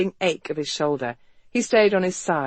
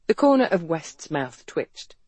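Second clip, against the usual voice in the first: plain reading voice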